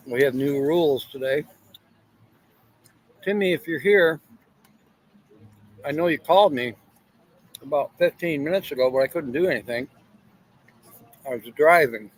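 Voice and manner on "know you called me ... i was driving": mouth full. Real, not acted. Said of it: "Sorry for talking with my mouth full".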